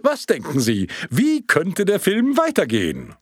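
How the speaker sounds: quick, light question to the room; first asking. Acted. Projectionist first asks the audience, light. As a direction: toss the question out. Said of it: "fragte er in die Runde".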